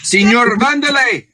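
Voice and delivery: loud, slow, thrilled welcome; excited greeting. Real, not acted. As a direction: greet him with a big call-out. Greeting a friend joining.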